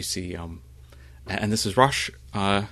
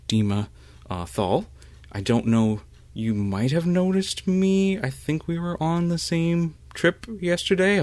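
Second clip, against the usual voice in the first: put-on higher, shy young woman voice; Dima; 3 semitones higher than usual. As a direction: lift the voice into a bashful girl.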